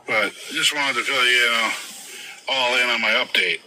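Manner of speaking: talking through a swollen face; words slurred by a swollen face; swollen face speech. Real, not acted. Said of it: "I know I'm talking kinda weird".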